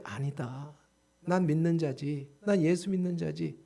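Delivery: low, soft inner resolve; retold self-talk. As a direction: talk yourself down quietly, slowing slightly. (낮고 조용히 혼잣말로 다짐하듯)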